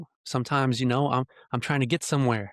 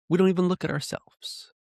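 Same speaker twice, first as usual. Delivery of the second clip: much higher-pitched, pleading repetition; emphatic repeat; 7 semitones higher than usual. Real, not acted. Speaker driving home self-examination to listeners, high and emphatic. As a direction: lift the whole line high for emphasis.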